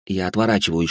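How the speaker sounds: ordinary delivery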